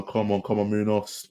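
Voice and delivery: ordinary talk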